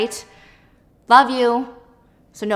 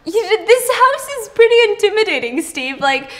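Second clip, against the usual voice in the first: put-on high girly voice; 6 semitones higher, 5 dB louder than usual. The speaker admits feeling out of place.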